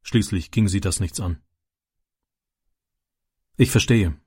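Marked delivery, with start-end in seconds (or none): 3.6-4.2 friendly. Acted. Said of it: "sagte der Bauer freundlich".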